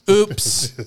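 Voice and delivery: mock high oops. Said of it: "just like".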